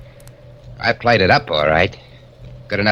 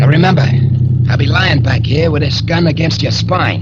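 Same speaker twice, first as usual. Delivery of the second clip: menacing orders; 3 semitones higher, 4 dB louder than usual. Acted. Gunman threatens hostage driver.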